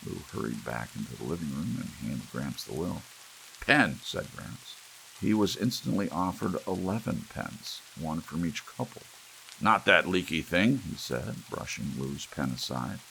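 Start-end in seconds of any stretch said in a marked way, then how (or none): 3.6-4.0 curt demand. A narrator's reading. Gramps demanding a pen. 9.6-10.8 put-on dismissive old man. A narrator's reading. Gramps rejecting Lou's pen.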